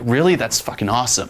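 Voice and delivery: mock amazement, jumping up in pitch at first; put-on delighted surprise; overblown enthusiasm. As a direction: act impressed by something trivial. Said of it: "you just overblow something that you like".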